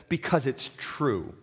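slow, earnest and simple, pleading to be believed; slow, sincere and pleading. Retold or imitated. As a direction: let it land slowly, hoping they'll hear. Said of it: "looks them in the eye with the begging hope".

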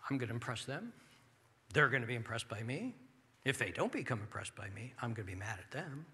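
proud self-centered person. Retold or imitated. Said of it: "go into the room selfish with pride".

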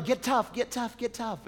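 hammed-up ringside coach, high and chanting; coach yelling. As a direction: imitate a trainer pushing his boxer.

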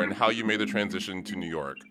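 ordinary delivery

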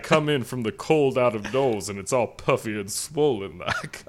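a genteel Southern gentleman voice, hammed up; Southern gentleman accent. Podcast host opens the show in a mock Southern accent. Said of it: "Should I do the rest of the show like this?".

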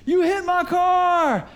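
slow, high, loud mock accusation; hammed-up angry stranger shouting; retold yell. Stranger in parking lot accusing pastor, mock yelling. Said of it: "start yelling and screaming".

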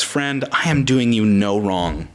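low, slow, gentle master; tender and kind. Acted. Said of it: "him actually being tender and kind".

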